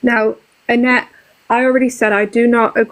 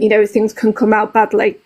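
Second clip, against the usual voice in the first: normal talking voice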